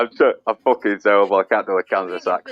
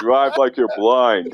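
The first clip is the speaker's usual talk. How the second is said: slow laughing quote; much slower than usual. Real, not acted. Repeating line, slowed, laughing.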